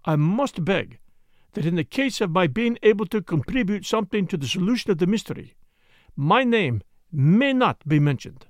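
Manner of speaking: put-on modest detective, lightly accented and measured; Poirot, courteous foreigner. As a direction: put on Poirot's polite, careful speech. Plays Poirot in the story.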